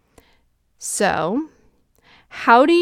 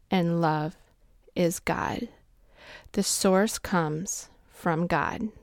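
hushed reverent; 3 semitones lower, 6 dB quieter, slower than usual. Real, not acted. Quiet reverent statement about God.

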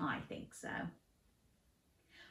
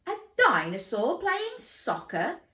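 questioning; 8 semitones higher, 6 dB louder than usual. Acted. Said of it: "Dad questioned".

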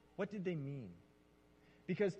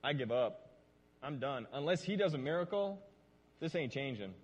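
mild desperate resignation; 4 semitones lower than usual. Retold or imitated. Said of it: "another disciple in there who's like".

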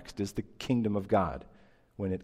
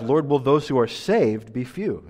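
asked straight up; 4 dB louder than usual. Retold or imitated. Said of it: "he asked him straight up".

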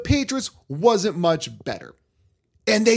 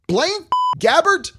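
high, disbelieving question; can't believe this name; pundit aghast at the signing; incredulous; 11 semitones higher, 4 dB louder, slower than usual. Real, not acted.

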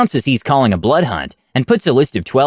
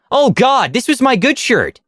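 mock group cry; 12 semitones higher than usual. Party splattered with ghoul bits cries out, high mock wail. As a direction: yelp it out in disgust, pitched way up. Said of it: "a group cry of".

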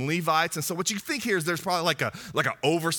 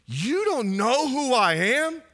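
proud, raised voice of self-importance; boastful prophet; 4 semitones higher than usual. Retold or imitated. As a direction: brag about your famous birth. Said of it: "John could have gone".

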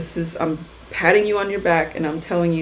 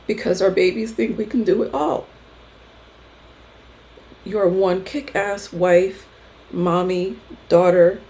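moved while reading to other moms; getting emotional. Real, not acted. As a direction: read it as emotion wells up, pausing to hold it. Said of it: "I don't know why I'm getting emotional".

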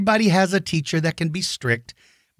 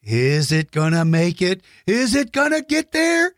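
nervous suspense; 3 semitones higher than usual. Pretend. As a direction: hold your breath, will it make it. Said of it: "and it's like".

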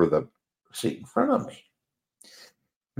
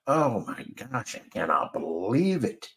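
weary dread; 2 semitones higher, 5 dB quieter than usual. Retold or imitated. Commuter facing the six fifteen train, wearily.

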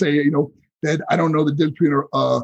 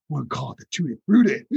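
Dusty Rhodes; 4 semitones lower than usual. Retold or imitated. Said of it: "And he goes".

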